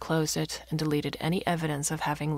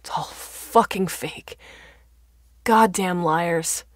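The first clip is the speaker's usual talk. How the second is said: slow, drawn-out angry rant; angry yelling; 6 dB louder, slower than usual. A narrator's reading. Father raging at the TV news, slow angry yelling. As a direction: spit each accusation out slowly. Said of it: "her father screamed".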